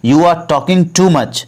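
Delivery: very slow, every word laid out for learners; slow, careful model sentence; slow teaching demo. Shown as a demonstration. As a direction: spell it out slowly for the class. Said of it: "तो इसको English में बोलेंगे".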